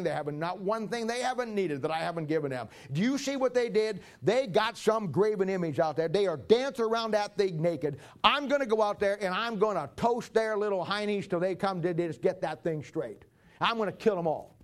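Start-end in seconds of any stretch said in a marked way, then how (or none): 2.9-14.6 angry God. Acted. Preacher voices an angry God.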